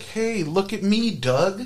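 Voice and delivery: high, drawn-out showing-off call; high-pitched mock kid shout. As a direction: imitate a kid yelling for attention. Kid on bike calls out.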